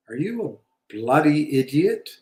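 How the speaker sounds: a hint of a British accent, scornful; lightly voiced young self sneering at the manager; mock British retort. Young investor mocking his manager, light British scorn. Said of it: "I didn't have an accent back then".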